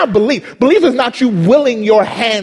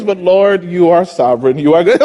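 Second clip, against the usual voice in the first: sudden pious calm. Retold or imitated. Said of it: "he would go off".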